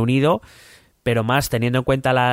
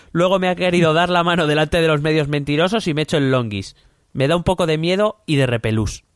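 higher-pitched read in Trump's voice; 5 semitones higher than usual. Acted. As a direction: read the diary entry as a light Trump impression. Reading Trump's diary as Trump. (voz de Trump, un poco más aguda)

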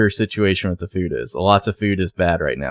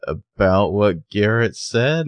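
slow, careful question; trying to be gentle; slower than usual. Retold or imitated. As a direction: ask it gingerly, drawing the words out. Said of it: "trying to be gentle".

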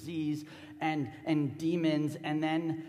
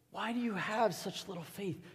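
higher-pitched question in one unbroken phrase; raised-pitch, searching question; pleading reproach; 6 semitones higher than usual. Acted. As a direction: repeat it higher, pressing for an answer. Jesus repeats question more pleadingly.

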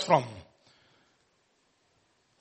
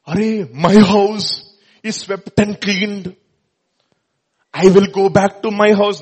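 smug demon; 4 semitones higher, 6 dB louder, slower than usual. Retold or imitated. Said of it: "That fellow is gone".

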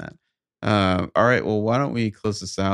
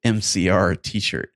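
deliberate, measured read-aloud; story narration. Acted. Podcast host reads bad fan fiction to co-host, story narration. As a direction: read each sentence out with careful pauses.

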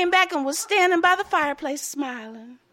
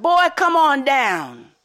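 husband calling up to the loft, loud and drawn out; hollered call; 7 dB louder, slower than usual. Acted. Husband hollering up to the boy in the loft, loud and slow. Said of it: "And he hollered".

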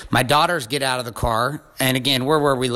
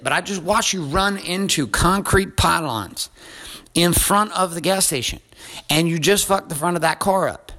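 exasperated scolding; 5 semitones higher than usual. Retold or imitated. Retold scolding of the driver.

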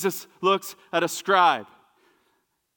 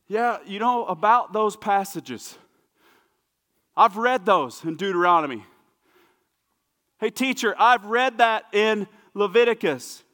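eager scribe; 4 semitones higher, 4 dB louder than usual. Retold or imitated. Scribe proudly tells Jesus what he's studied, eager. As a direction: show off your study to the teacher. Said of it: "proper response ... would have been like".

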